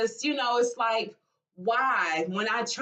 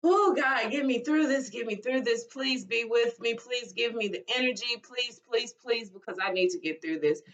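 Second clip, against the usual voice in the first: pleading prayer. Retold or imitated. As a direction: beg God in repeated, urgent little pleas. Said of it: "I was just crying and praying".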